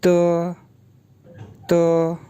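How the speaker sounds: त said as an unaspirated t with a short vowel; त, crisp and short; त like an unaspirated Mandarin de; pinyin de as t. Shown as a demonstration. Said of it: "pronounce होगा जी त".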